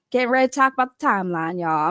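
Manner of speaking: quick mock Southern accent; fake Southern accent. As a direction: mimic a Southern woman, not very well. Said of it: "I just don't have a good Southern accent".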